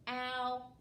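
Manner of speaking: S-k-ow-l split into four separate sounds; sounding out. Shown as a demonstration. Teacher models the sounds in scowl for the class, sound by sound. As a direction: break S-k-ow-l into its sounds one by one. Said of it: "let's say the sounds in scowl".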